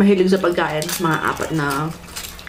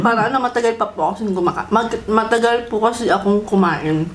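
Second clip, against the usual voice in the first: chewing while talking. Real, not acted. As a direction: mouth full of food. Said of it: "habang kumakain pa ako".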